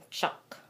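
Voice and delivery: choc with a short lazy "uh"; schwa. Shown as a demonstration. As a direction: say choc like "chuk" with lazy lips. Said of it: "have to have a lazy".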